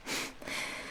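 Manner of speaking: soft, breath-only chuckle; faint relieved laugh. Acted. Creature relieved the human wants to live, faint laugh. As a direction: let out a small laugh of relief.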